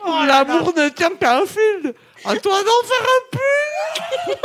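stuffed mouth, garbled words; mouth full. Real, not acted. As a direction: declaim through a full mouth. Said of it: "mouth stuffed with marshmallows".

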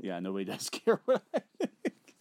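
laughing through the words. Real, not acted. Host conceding co-host's jab that no one cares, laughing. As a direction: concede it with a real laugh breaking in.

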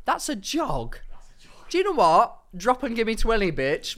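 barking drill orders; drill sergeant. Acted. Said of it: "drill order after "speed eight".

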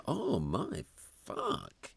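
imitated heartfelt swear, stretched slowly; genuine exclamation. Dad imitating his daughter's accidental swear, genuine drawn-out exclamation. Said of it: "it was a genuine".

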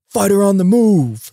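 high, drawn-out mock yell; imitated hallway call. Staffer calling fighters out to the hallway, imitated yell. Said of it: "yells at the top of his lung".

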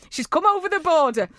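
put-on slipping into a Northern English accent; playful lapse into Northern English. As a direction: let the Northern English accent take over. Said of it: "I've got Northern".

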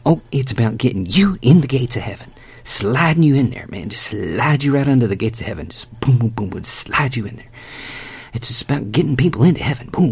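hammed-up slick pitch; mock the quick sell; mock salesman. Mocking shallow evangelism.

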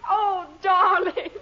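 high, loud and slow, gushing over her darling; gushing greeting. Acted. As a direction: melt all over him with delight. Wife greets husband effusively.

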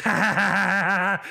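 put-on a toddler's high, loud copycat laugh; hammed-up little-girl laugh; mimicked baby laugh. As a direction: lightly imitate a baby giggling on cue. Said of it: "she goes".

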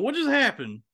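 high, puzzled replay; imitating own confusion. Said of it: "It was just me going".

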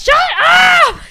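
very high, loud mock scream; imitated yell. Imitating someone yelling at the night singer, high scream. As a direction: scream it out like an irritated housemate. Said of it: "And someone yells".

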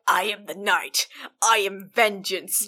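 brooding vigilante voice; Batman voice. Retold or imitated. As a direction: intone it like a grim caped hero. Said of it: "she does the full".

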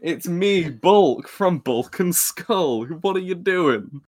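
loud mock bully Oi then blustering; deep man Bulk voice. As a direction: bark it like a lunkhead bully. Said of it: "in his deep man Bulk voice".

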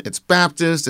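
normal talking voice

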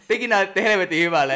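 imitated yell from the stage; retold shout. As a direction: shout praise back across a room. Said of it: "mä huusin".

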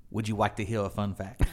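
lightly mimicked cashier, r's and l's softened to w's; imitated cashier. Cashier offering a customer trivia, lightly imitated. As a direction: lightly play an earnest trivia-loving clerk. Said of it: "he looks at me and he says".

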